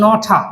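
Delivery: "not a" joined as "no-tha"; linked collocation. Shown as a demonstration. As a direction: link "not a" with a lightly aspirated t. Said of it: "এখানে দুটা collocation". ("not a" একসাথে "নঠা" উচ্চারণ)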